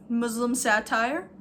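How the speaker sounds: "Muslim satire" drawn out slowly, mock reverent; sarcastic "Muslim satire". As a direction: say "Muslim satire" like a prized genre. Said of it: "I'm like".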